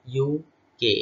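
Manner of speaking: "ইউকে" as two separate letters, U and K; U, then K, in "ইউকে"; spelled out letter by letter. Shown as a demonstration. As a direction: say each letter of "ইউকে" distinctly. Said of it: "letter by letter আমরা উচ্চারণ করব".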